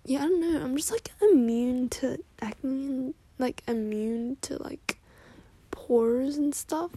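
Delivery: airy bragging, dragged-out words; giddy party girl. Acted. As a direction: boast like a vain bestie. Playing Mackenzie bragging.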